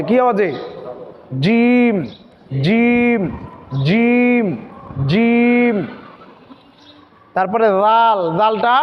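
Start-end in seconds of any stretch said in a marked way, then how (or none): 1.4-5.9 জিম said firm and crisp each time; hard sound. Shown as a demonstration. Teacher repeating a hard জিম for students. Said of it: "জিমটা হচ্ছে শক্ত আওয়াজে".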